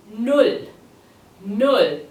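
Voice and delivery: NULL with a long, drawn-out oo; teacher's model Null, vowel held long; stretched-out U. Shown as a demonstration. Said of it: "because the U is stretched out".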